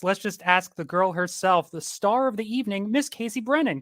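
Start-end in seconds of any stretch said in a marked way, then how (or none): 1.7-3.8 showy emcee introduction; host introduction. Real, not acted. Host presenting the star of the evening, showy introduction. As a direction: build up to the guest's name, rising higher.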